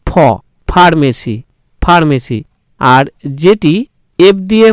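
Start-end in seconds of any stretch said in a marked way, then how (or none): 0.1-2.4 "ফ" and "ফার্মেসি" with a complete aspirated ph; "ফ, ফার্মেসি" with a full puffed ph. Shown as a demonstration. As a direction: demonstrate Bengali ফ, not f, in "ফার্মেসি". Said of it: "ফ এর উচ্চারণ সম্পূর্ণ হচ্ছে".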